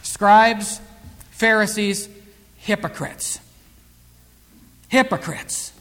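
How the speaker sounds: name them calmly, pausing after each; calm rebuke. Retold or imitated. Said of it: "just very calmly said".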